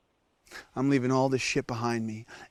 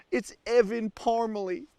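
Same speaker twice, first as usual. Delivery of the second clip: fake Southern accent. Survival host naming himself to camera, still in fake Southern accent. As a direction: keep the cowboy accent on "Evan Parmalee". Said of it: "I don't even have an accent".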